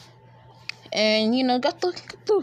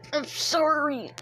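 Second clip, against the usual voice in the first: choked apology; 6 semitones higher, 5 dB quieter than usual. Acted. Sasuke apologizing while being choked.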